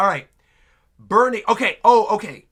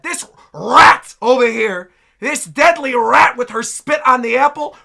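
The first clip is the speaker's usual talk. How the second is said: mock rant; 2 semitones higher, 6 dB louder than usual. Mock rant against disliked character.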